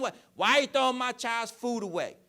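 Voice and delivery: high, loud indignant parent yelling; outraged parent voice, mocking. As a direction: play the furious parent, hammed up. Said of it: "the parents gonna come down".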